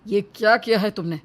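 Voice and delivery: doctor angrily rebuking family, understated; angry doctor. Acted. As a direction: scold the family for the delay. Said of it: "वो गुस्से से कहता है".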